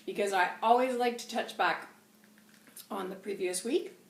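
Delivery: talking while chewing gum. Real, not acted. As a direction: speak around a wad of gum. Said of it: "I'm chewing gum".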